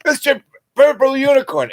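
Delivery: very high falsetto call; high-pitched shouted name. Retold or imitated. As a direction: squeal it up high like a lost man. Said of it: "Bobby's up there going".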